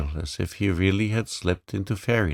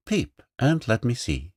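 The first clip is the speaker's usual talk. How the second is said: commanding; 5 semitones higher than usual. Acted. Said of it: "commanded the voice".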